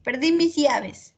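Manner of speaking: llaves said with a y sound, jabes; Perdí mis llaves with the y sound; pronunciation demo. Shown as a demonstration. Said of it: "Estoy empleando la pronunciación".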